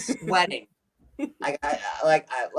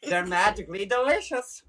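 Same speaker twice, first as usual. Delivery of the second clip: lower, understated mock brogue; Irish accent; 4 semitones lower, 3 dB quieter than usual. Performer falling back on the slogan, low mock Irish. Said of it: "yeah, Irish".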